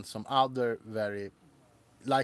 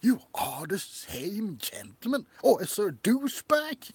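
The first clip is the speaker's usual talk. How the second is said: softer snooty waiter; 6 semitones higher than usual. Pretend. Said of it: "it probably will be more like".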